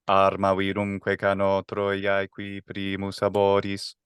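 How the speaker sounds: flat, even, slow recitation; monotone. Shown as a demonstration. Teacher reading the Aeneid line monotone for contrast. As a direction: recite it in one level tone. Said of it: "so if it's monotone".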